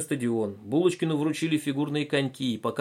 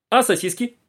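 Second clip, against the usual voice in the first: высокий вопрос; 10 semitones higher, 6 dB louder than usual. A narrator's reading. Булочкин спрашивает.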